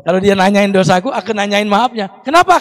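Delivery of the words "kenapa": quoted question. Retold or imitated. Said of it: "kata beliau".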